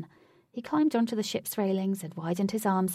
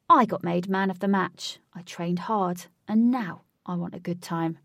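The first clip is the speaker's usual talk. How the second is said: entitled; 5 dB louder than usual. Acted. Huey entitled.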